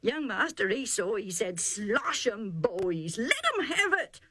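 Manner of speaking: high, urgent rustic herdsman begging his master; pleading herdsman. Acted. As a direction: plead with the master to let them fight. Herdsman tells the fight.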